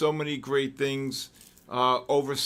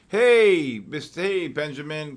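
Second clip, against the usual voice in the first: excited greeting; 3 semitones higher, 6 dB louder than usual. Real, not acted. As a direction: call out to a friend who just showed up. Greeting a viewer in chat.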